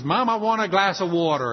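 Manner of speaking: mock call-out to Mom; crying out. Little girl calls mother from dark bedroom, mildly crying out. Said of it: "starts crying out and says".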